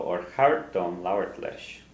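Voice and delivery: Orchartom lauert lesh drawn out slowly for learners; teacher models a question to repeat; slow model phrase. Shown as a demonstration. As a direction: say it slowly so they can copy it.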